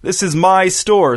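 measured indignation; indignant assertion. A narrator's reading. Store owner asserting himself in quarrel.

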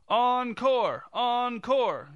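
high, loud insistent chant; shouted. A narrator's reading. Director's husband shaking his fist at the actors, shouted. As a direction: shout it at the stage, high and falling. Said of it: "shouted the director's husband".

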